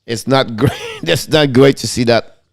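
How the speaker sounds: laughing. Real, not acted. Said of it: "I'm laughing because".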